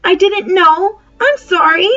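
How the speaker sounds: humbly. Acted. Polly apologises to Diggory humbly. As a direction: say sorry meekly, embarrassed. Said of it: "said Polly humbly".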